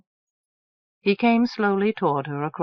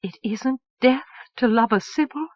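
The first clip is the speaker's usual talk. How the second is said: disbelieving joy; 5 semitones higher than usual. Acted. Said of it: "she heard nothing after".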